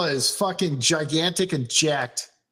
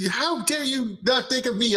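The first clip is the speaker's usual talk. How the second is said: high-pitched mock indignation; Aqua; 8 semitones higher than usual. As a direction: act offended at being overlooked, voice pitched up. Aqua's affronted protest, retold.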